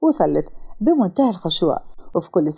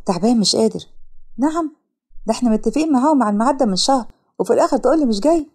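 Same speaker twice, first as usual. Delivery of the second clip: lightly voiced young woman. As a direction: play the secretary, put out and scolding. Yara voiced higher on phone. (سكرتيرة مندهشة ومستاءة بصوت أعلى)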